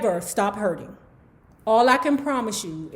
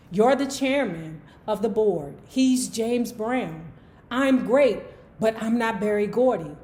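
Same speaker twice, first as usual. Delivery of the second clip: composed narration, dialogue lightly acted; memoir read aloud; 4 dB quieter than usual. A narrator's reading. Host reading a phone negotiation with the chairman, measured narration. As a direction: read the exchange out evenly, slightly softer.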